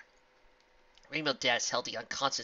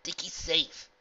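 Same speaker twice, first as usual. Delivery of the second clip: reassuring; 9 semitones higher, 11 dB louder than usual. Acted. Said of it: "Rainbow reassured her".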